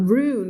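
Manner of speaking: "ruin" squeezed into one syllable, roon; correct reading of ruin. Shown as a demonstration. Teacher modelling for students, "ruin" as one-syllable roon. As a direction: say "ruin" as a single long "roon". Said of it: "คำนี้ออกเสียง".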